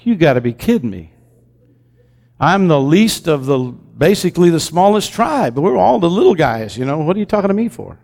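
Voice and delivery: a lightly voiced doubting Gideon protesting; incredulous Gideon. Gideon protesting to the angel, lightly voiced disbelief. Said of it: "Gideon's like".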